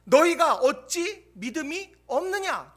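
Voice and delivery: stern rebuke. Acted. Pastor contrasting two ways of saying Jesus's rebuke, slow and stern. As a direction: drive it home slowly. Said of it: "같은 말씀을 다르게 표현하는".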